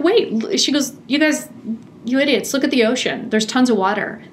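mock know-it-all daughter; lightly voiced daughter. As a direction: toss it off like a smug kid. Daughter retorts, calling parents idiots.

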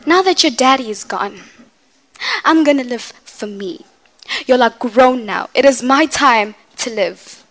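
hurt mother telling her children her story, lightly acted; a mother proving she is not weak, building to defiance; mother venting monologue. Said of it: "this is from Medea's Funeral".

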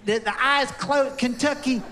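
put-on tight Kentucky accent. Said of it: "Kentucky tightens up".

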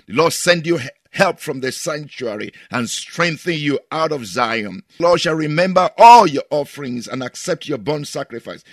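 loud proclaiming blessing; preaching a blessing at full force; blessing prayer. Acted. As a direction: pronounce the blessing boldly. Blessing over listeners.

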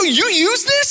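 a high-pitched mock incredulous question; disbelief. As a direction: squeak it out, appalled and amused. Disbelief at friend's habit.

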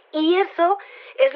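breathy whispered aside. Acted. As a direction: drop to a whisper for effect. Dramatic reveal in interview.

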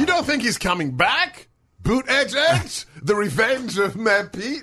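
high-pitched teasing disbelief; squeaky mock-dramatic questioning; mock incredulous. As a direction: pitch it way up, hamming up the astonishment.

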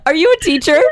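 high, laughing question. Real, not acted. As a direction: ask through laughter. Laughing after joke.

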